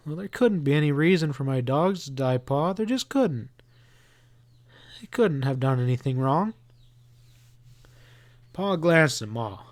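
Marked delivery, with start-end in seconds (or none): 0.1-6.5 put-on anguished boy. Boy argues with his father that his dogs did nothing wrong, anguished.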